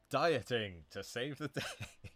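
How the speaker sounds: slow, loud movie-trailer hero announcement; superhero trailer voice. Pretend. Teacher jokes Celery Man is a superhero, trailer voice. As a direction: boom it out like a hero's tagline, laughing through it.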